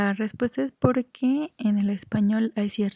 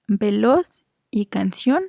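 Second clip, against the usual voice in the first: "veloz" and "canción" said slowly, leaning on the final syllable; "veloz", "canción": drawn-out words, each stressed at the end; last-syllable stress; slower than usual. Shown as a demonstration. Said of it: "la sílaba tónica es la última".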